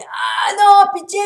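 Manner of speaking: high, loud, slow "Ah non, pitié!"; begging shout. Retold or imitated. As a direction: wail it out like a desperate driver. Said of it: "il dit". (supplication criée, aiguë et lente)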